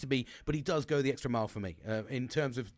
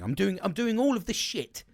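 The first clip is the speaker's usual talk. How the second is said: getting angry; 5 semitones higher, 4 dB louder than usual. Real, not acted. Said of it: "I'm getting angry".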